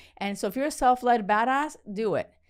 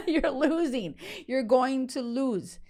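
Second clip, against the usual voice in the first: laughing tease; 3 semitones higher, slower than usual. Real, not acted. Teasing the viewer.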